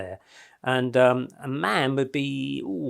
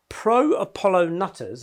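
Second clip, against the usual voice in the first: quoting scornfully; 4 semitones higher, 4 dB louder, slower than usual. Retold or imitated. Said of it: "his words, not mine".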